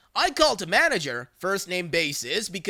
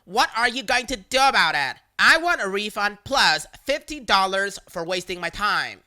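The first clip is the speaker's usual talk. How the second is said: louder, indignant demand; demanding customer; 2 semitones higher, 4 dB louder than usual. Retold or imitated. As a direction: demand the refund like it's owed. Caller demanding refund.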